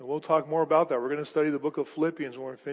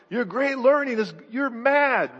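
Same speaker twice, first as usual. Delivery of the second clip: mock scorn; 5 semitones higher, 5 dB louder than usual. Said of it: "Festus interrupts him and says".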